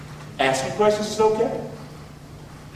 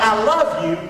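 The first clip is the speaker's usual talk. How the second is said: God's voice; 5 semitones higher than usual. Acted. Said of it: "Here's God".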